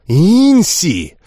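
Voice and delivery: sharp, loud warning of the name; almost snarl at her; near growl. Acted. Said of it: "почти прорычала Лисанна". (почти прорычать имя)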